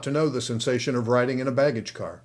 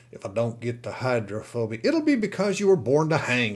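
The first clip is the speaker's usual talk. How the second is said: laughing. Acted. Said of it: "laughed the saloon keeper".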